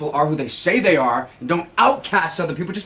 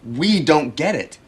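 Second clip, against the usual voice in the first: "we" drawn out and leaned on; slow, pointed emphasis on "we"; stress on WE; slower than usual. Acted. Husband objecting to being lumped in, stressing "we". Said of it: "I'm not a we".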